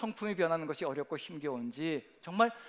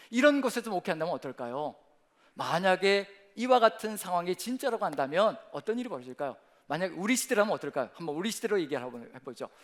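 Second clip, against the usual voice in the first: ordinary talk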